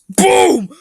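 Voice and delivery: high, loud dramatic boom; loud exclamation. Acted. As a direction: punch the ending. Dramatic ending.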